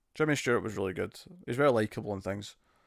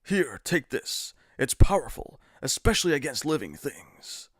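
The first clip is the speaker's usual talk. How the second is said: bad game voice acting. Streamer mimics Resident Evil's Barry, stiff wooden delivery. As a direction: deliver it stiffly like a cheesy dub. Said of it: "Resident Evil one, bad voice acting".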